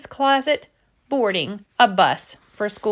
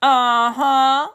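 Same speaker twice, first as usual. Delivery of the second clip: trembling; 4 semitones higher than usual. Acted.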